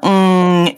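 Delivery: "ng" as in ring, drawn out alone; nasal sound demo. Shown as a demonstration. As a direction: hold "ng" as a long, steady hum. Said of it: "what are our three nasal sounds".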